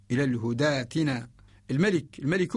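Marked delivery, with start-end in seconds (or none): 0.1-1.3 الهداتنا joined on long aa; Warsh connected reading. Shown as a demonstration. Teacher repeating the Warsh reading, long aa in الهداتنا. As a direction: hold daa in الهداتنا without hamza. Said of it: "هذه هي رواية ورش".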